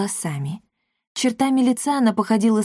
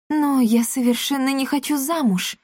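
indignant; 6 semitones higher than usual. A narrator's reading. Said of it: "возмущённо сказала Сабрина".

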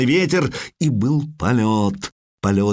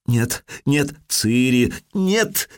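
frightened plea; 2 semitones higher, much slower than usual. Acted. Цири кричит во сне.

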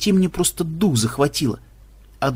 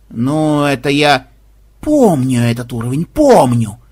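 mocking Bonzai; 2 semitones lower, 4 dB louder, slower than usual. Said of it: "Говорящий явно передразнивал Бонзая".

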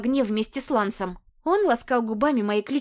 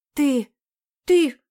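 stammered, rising and much louder; growling outburst; 3 semitones higher, 6 dB louder than usual. A narrator's reading. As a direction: burst out with each word. (рычащий срыв, всё громче)

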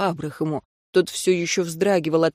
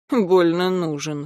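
snorting; slower than usual. Acted. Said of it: "фыркнул Энджи".

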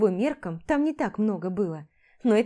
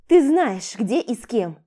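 loud, raised retort; defiant; 4 semitones higher, 6 dB louder than usual. Acted. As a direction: defy him. She retorts loudly. (громкий вызывающий ответ)

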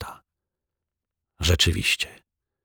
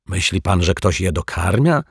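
embittered. Acted. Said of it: "rozgoryczony pan Mietek".

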